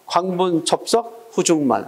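광분 접속 as four, pause, then 후중만 as three; four-three reading rhythm. Shown as a demonstration. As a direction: read 광분 접속 후중만 slowly in four-plus-three groups. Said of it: "사, 삼으로 읽으면 돼".

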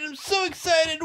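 shouted, punching so; excited shout. Acted. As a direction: yell it out, hitting so hard.

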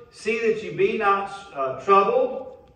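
preacher's emphatic Bible reading; scripture read in preaching voice. Real, not acted. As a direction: read the verse out firmly to the congregation. First reading of the verse.

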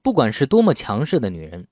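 ordinary talk, nothing marked

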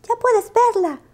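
agudo y contento; enséñala con orgullo; exclamación orgullosa. Acted. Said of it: "exclamó Lupo". (Lupo presenta su estatua, agudo y ufano)

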